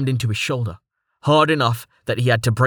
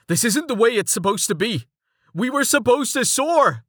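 high desperate cry; panicked; 12 semitones higher than usual. Acted. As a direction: plead as everything falls apart. Panicked cry as ship crashes.

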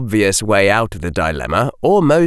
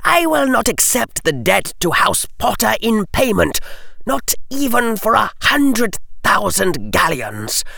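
cold nobleman; 11 semitones higher than usual. Acted. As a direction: lay down the law coldly. Lucius declaring.

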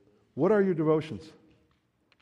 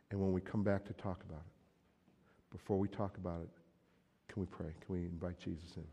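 gentle plea to wife; 3 semitones lower, 5 dB quieter than usual. Pretend. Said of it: "or I can say".

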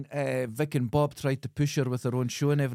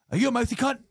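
hard woman threat; 10 semitones higher, faster than usual. Retold or imitated. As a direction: snarl it like a Dundee hardwoman. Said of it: "She goes".

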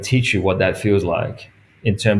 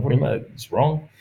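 higher and softer, "wrong" rising as a question; incredulous; 4 semitones higher, 3 dB quieter than usual. Retold or imitated. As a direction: throw the verdict back in disbelief, "It's wrong?". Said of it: "And I've gone".

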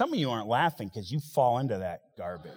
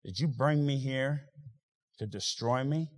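quiet lament; 5 dB quieter than usual. Retold or imitated. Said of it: "I've said".

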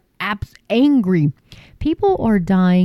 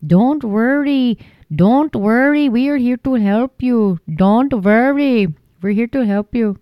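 mock reassurance; 3 semitones higher than usual. Mocking government reassurance.

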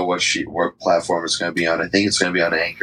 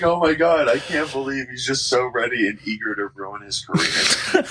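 mock gushing woman; 5 semitones higher than usual. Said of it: "She's just like".

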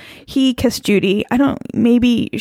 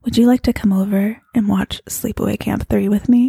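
sexy voice. Pretend. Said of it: "let me put on my sexy voice".

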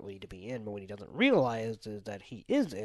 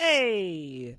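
tough-guy shout; 9 semitones higher, 9 dB louder than usual. Pretend. Gangster bit continues.

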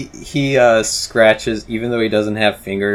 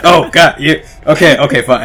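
exasperated driver; 7 semitones higher, 11 dB louder than usual. Acted. Driver exasperated by seat demands.

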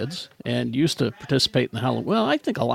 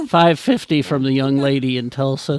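auctioneer. Pretend. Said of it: "Salt Lake as an auctioneer".

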